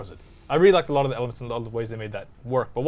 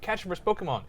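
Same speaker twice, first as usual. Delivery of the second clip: higher-pitched imitation of an egging-on friend; lightly voiced movie character, pitched up; eager friend quote; 6 semitones higher than usual. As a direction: act out a pal urging someone on. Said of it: "the main character's friend is like".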